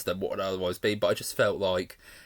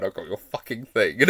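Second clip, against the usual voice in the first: imitating snarl. Fan re-enacting a character's threat line, snarled. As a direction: mimic her threat again with relish. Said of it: "Just the way she says the line".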